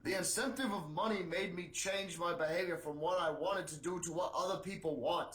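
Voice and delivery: lightly voiced politician quote; a hint of a put-on senator; mildly acted campaign grievance; Bernie Sanders. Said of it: "Sanders said".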